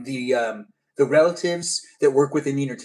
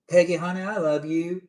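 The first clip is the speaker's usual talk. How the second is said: put-on Southern sweet-talk; Southern accent; 4 semitones higher than usual. Streamer greeting viewer's mom in a Southern accent. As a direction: say it with a light Southern twang. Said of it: "say it in your accent".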